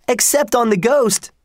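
a second gleeful yell that falls on ghost; shouted. A narrator's reading. Twins shouting back to their father, falling on ghost. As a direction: shout ghost high, then let it fall. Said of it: "shouted the twins".

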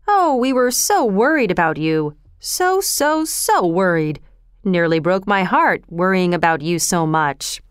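mock-concerned, swooping intonation; a hint of a sly old rogue fussing over a boy; lightly voiced oily Fagin.

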